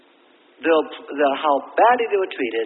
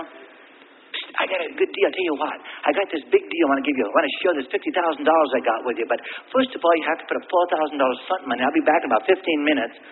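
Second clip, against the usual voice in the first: hushed, shady street-corner hustler pitch; secretive raspy sales murmur; 4 semitones lower than usual. Retold or imitated. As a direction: lean in and whisper the con. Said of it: "you open your coat and say".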